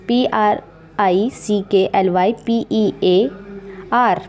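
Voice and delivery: slow letter by letter; slow spelling. Shown as a demonstration. Teacher spells prickly pear slowly for the class. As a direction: dictate each letter. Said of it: "कहते हैं प्रिकली पियर".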